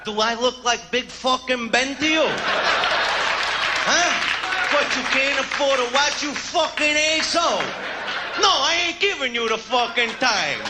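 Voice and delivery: mock outrage at a simple question; rude yelling tough guy. Stand-up comic playing a rude stranger, mock furious yell. Abusive reply to asking time.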